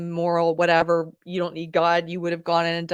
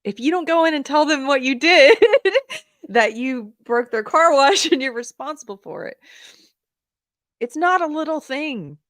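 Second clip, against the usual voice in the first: God's voice laughing; 7 semitones higher, 5 dB louder than usual. Retold or imitated. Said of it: "but it was like".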